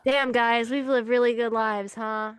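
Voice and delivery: lightly acted toast among old friends; characters reminiscing. Imagined friends chatting over a drink.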